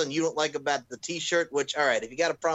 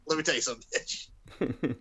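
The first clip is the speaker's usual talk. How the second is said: imitating Amir, trailing off; 4 dB quieter than usual. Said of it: "He said".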